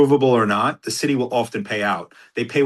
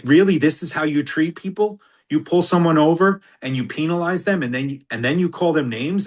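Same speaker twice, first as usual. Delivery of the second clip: raised, challenging retold reproach; indignant lawyer; 5 semitones higher than usual. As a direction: act out a lawyer's outraged questioning. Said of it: "the lawyer pushed me again".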